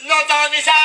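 high, loud conductor yell; shouting. Retold or imitated. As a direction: yell the stop name. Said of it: "Akalain mo sigawan". (malakas na sigaw ng konduktor)

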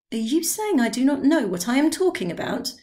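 mild tipsy indignation; offended old man. Acted. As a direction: bristle at the insult. Drioli offended.

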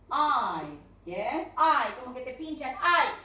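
"Eye" said clearly as one syllable; model eye. Shown as a demonstration. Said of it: "pronunciando mal esta palabra".

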